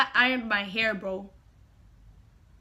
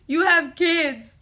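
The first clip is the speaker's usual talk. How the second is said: louder, slower insistent repeat; emphatic repeat; 4 semitones higher, 6 dB louder, slower than usual. Retold or imitated. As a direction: press the point harder. Pleading with uncle on phone.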